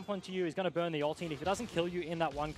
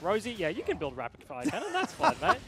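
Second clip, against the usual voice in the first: easygoing coach; 5 semitones higher, 4 dB louder than usual. Retold or imitated. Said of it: "Drac is like".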